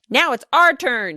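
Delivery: put-on high and loud, boys bursting in; excited shriek. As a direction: yell it like kids charging into the game. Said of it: "shrieked the boys".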